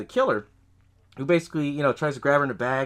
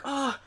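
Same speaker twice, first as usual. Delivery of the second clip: high but soft mock scream; mock freak-out cry; 11 semitones higher, 6 dB quieter than usual. House mom freaking out, softly imitated scream. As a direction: give a small, high cry of panic. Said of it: "freaking out".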